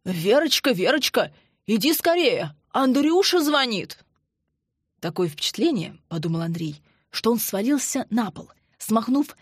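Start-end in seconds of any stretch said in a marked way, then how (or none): 0.0-4.0 calling out loud and high, flustered; high excited voice. Acted. Colonel calls Verochka to the phone, high and flustered. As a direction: shout for his wife in a flurry. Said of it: "высокий взволнованный голос Максима Владимировича".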